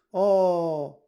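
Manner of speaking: loud, high, drawn-out "oh" of wonder; astonished oh. A narrator's reading. Peter sees the huge empty playroom, astonished. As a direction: let out a big amazed oh. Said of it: "Peters erstauntes".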